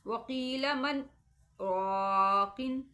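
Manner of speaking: slow chanted Arabic with sakta pause after मन; tajweed sakta demonstration; Quranic recitation demo. Shown as a demonstration. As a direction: recite वकील मन, pause without breath, then रॉकिन. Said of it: "मैं इनकी अदायगी करती हूँ".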